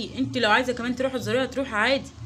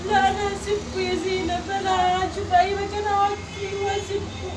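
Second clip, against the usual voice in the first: wounded upset; 4 semitones higher than usual. Acted. Mother betrayed by her son-in-law, upset. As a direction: push the hurt out.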